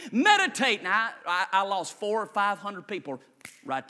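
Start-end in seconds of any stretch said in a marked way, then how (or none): 0.1-0.8 lead the repeat. Shown as a demonstration. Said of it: "Say it with me".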